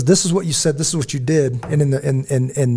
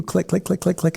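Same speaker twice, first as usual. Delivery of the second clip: spoken clicks; 3 semitones higher, 8 dB quieter than usual. Retold or imitated. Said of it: "click their fingers".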